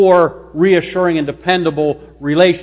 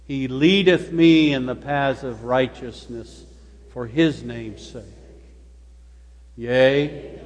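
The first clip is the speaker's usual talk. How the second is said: unhurried scripture reading, low and measured; slow, sure reading; 7 semitones lower, 7 dB quieter than usual. Real, not acted. Pastor leading the congregation in a psalm, slow and sure. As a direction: read it slowly, pausing after each phrase. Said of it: "We're gonna read slowly and surely".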